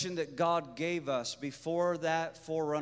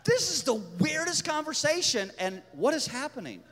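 mock freak-out. Couple looking at each other in bafflement, mock freak-out. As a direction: drag out the words in bewilderment. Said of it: "I'm freaking out".

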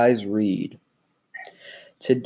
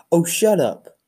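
a touch of hurt, pitched up; 7 semitones higher than usual. Acted. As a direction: read it lightly hurt and indignant. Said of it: "said Piggy in a hurt voice".

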